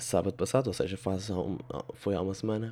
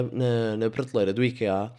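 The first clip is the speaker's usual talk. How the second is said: ordinary talk, nothing marked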